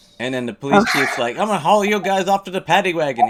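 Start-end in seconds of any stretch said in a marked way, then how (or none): 1.4-3.3 big, broad, put-on Irish accent, pitched up. Retelling a story, voicing the police chief in a big Irish accent. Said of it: "He had this big Irish accent".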